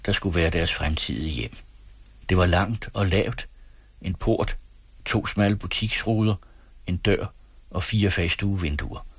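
measured literary read-aloud with lightly acted dialogue; audiobook-style storytelling; story narration. A narrator's reading. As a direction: read the novel aloud, pausing between phrases. Resumes reading the novel.

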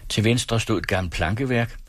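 measured literary read-aloud with lightly acted dialogue; audiobook-style storytelling; story narration. A narrator's reading. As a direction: read the novel aloud, pausing between phrases. Resumes reading the novel.

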